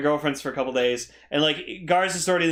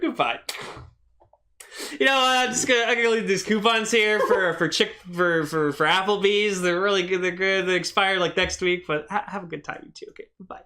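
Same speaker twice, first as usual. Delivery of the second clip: awkward apologetic voice; 3 semitones higher than usual. Retold or imitated. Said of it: "he just has the door".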